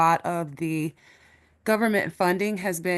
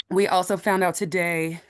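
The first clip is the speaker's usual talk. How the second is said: breathless, short of air; out of breath. Real, not acted. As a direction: speak winded, gasping between words. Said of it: "sorry, I'm out of breath".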